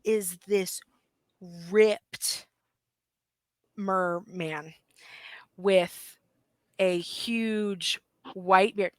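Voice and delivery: slow, drawn-out reveal; weighty storyteller with pauses between phrases; game master narration. A narrator's reading. Game master reveals the merman from the shadows, suspenseful narration.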